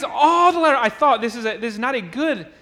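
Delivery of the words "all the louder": all the louder pushed out loud and high; stressed phrase. Shown as a demonstration. Preacher stressing the key phrase, loud and high. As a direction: punch "all the louder" hard. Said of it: "that's the phrase".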